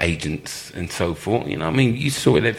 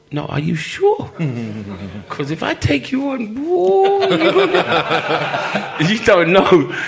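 high, laughing brag, getting louder; laughing tease; 12 semitones higher, 5 dB louder, slower than usual. Retold or imitated. Teasing the coach who told him to take him on, laughing high. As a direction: crack up while warning him.

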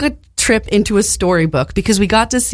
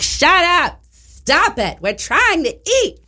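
mock annoyed shout; 11 semitones higher, slower than usual. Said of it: "the queens behind us are loud".

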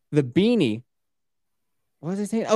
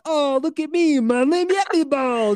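high, hammed-up show-off voice; mock self-promo; 11 semitones higher than usual. Mocking a promo video, hammed-up show-off. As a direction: brag about the hat in a silly high voice.

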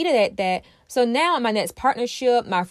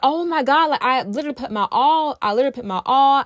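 higher-pitched acted exasperation; exasperated; 4 semitones higher, 3 dB louder, faster than usual. Voicing the self-abandoner whose partner left, mildly exasperated. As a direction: protest it, a touch exasperated. Acts out a let-down partner's complaint.

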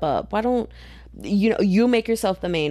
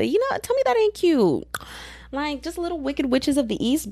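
gushing; 10 semitones higher than usual. Real, not acted. Gushing about cute cult members.

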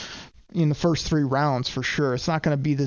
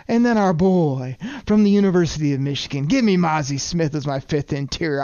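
out of breath; 4 semitones higher than usual. Real, not acted. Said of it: "I'm out of breath".

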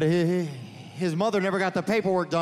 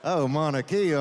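mock sexy Spanish. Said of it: "It sounds sexier when it's Spanish".

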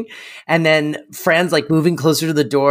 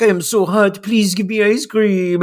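mock seductive; 6 semitones higher than usual. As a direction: purr it like a bad seductress. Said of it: "she's like".

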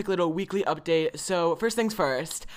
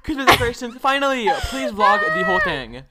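much higher, louder excited shriek; excited squeal; 11 semitones higher, 8 dB louder than usual. Real, not acted. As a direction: squeal with delight. Thrilled about Christmas tree news.

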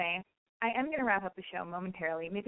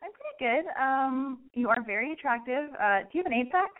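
higher, coy flirting voice; 5 semitones higher than usual.

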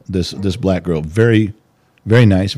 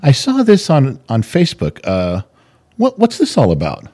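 imitating a child; 4 semitones higher than usual. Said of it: "walk up to me and go".

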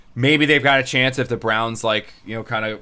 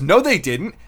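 1 retold denial; 8 semitones higher, 5 dB louder, slower than usual. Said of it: "And Rich goes".

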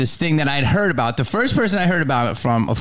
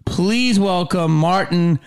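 announcer welcome; 4 semitones higher, slower than usual. Acted. Host formally welcoming the guest.

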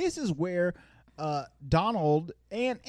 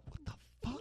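mock Donald; 8 semitones higher, 16 dB quieter than usual. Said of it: "Donald's like".

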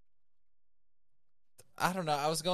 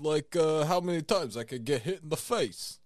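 Rocky impression; 3 dB louder than usual. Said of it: "It's Sylvester Stallone".

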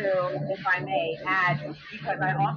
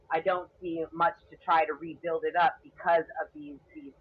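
muffled. Real, not acted. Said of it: "you sound far as hell".

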